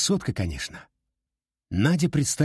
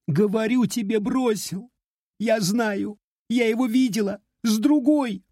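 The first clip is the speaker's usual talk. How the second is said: put-on high, upset girl insisting; a jilted girl, hurt and stubborn; tearful young woman; 12 semitones higher than usual. A narrator's reading. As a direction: heartbroken girl pleading her case. Heartbroken girl voice.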